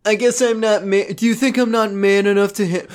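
high put-on character voice; hammy, affronted character voice; Josh. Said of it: "Josh goes".

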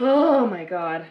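stunned, slow gasp of disbelief; shocked. Real, not acted. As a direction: react as if it's a disaster. Player sees damage roll needed.

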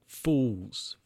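a lightly voiced, drawn-out smug "Fools"; smug sneer. Jack sneering at co-workers running to meters. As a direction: dismiss them with mild contempt.

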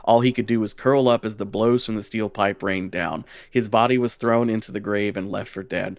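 measured lore reading; lightly dramatic storyteller voice; story narration. Acted. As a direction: read it like a dark legend. Reads the lore text aloud.

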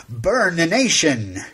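slow mock-grand proclamation; drawn-out hammy finale; hammy stage actor. Shown as a demonstration. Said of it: "I'm gonna read it to you now".

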